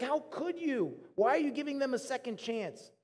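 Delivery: a mildly voiced, wounded reproach to God; Jonah. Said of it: "he's so upset with God".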